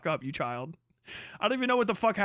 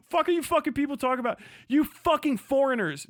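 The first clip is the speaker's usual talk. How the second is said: derision; 5 semitones higher than usual. Acted. Streamer sneering at foreign chat critics, derisive. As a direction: spit it out with open scorn. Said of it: "Just feel the derision".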